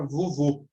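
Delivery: "vovô" ending in a closed oh. Shown as a demonstration. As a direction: round the last O of "vovô". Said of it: "para indicar som fechado".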